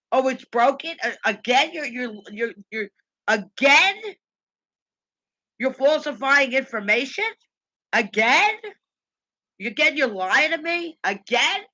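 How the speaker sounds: incredulous questions with rising ends; indignant, disbelieving cross-examination; ranting. Real, not acted. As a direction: throw each accusation up as a question. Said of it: "me ranting and raving".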